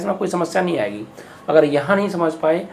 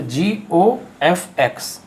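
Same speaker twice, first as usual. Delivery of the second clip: slow written form; much slower than usual. Shown as a demonstration. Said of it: "इसको परिभाषित कैसे करेंगे".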